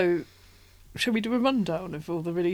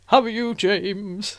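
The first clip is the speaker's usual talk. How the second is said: James Mason impression; much slower than usual. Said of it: "And James Mason".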